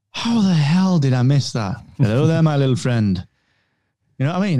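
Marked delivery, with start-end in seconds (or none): 0.1-3.2 mock disbelief. Viewer rewatching A New Hope, mock disbelief. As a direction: stretch out HOW THE HELL in amazement. Voices own astonished reaction.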